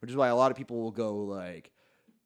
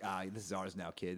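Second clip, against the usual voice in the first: bully owl; 4 semitones lower, 11 dB quieter than usual. Retold or imitated. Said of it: "the owls are gonna show up and be like".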